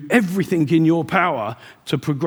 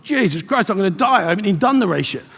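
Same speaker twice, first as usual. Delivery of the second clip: panicked thought; 4 semitones higher than usual. Retold or imitated. Terror in storm retold.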